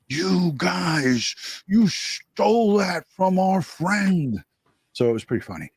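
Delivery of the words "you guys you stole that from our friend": high, drawn-out mock accusing voice; mock accusation. Host imitating a viewer who came at them about copying, mock accusing. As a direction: imitate a complainer, stretching the words out high. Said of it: "one of your people came and started".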